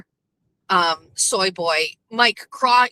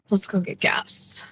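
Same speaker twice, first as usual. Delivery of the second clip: slow breathy whisper in a put-on accent; 4 dB quieter than usual. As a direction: whisper it slowly as a playful bit. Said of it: "How many accents can I do today".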